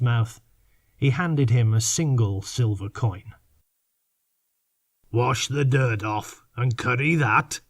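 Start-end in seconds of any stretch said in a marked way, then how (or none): 5.1-7.6 with a grin. Acted. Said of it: "Morgan said with a grin".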